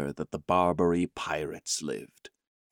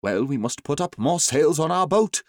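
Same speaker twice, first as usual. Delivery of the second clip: urgent order; 6 semitones higher, 4 dB louder than usual. A narrator's reading. Doctor gives orders in danger.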